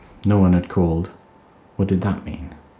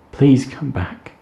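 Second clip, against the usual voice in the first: higher, slow calling shout; shouted apology; 7 semitones higher, 4 dB louder, slower than usual. Acted. Emma shouting over the wind to Tim, slow calling. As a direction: call the apology out, slowly. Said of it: "shouted Emma".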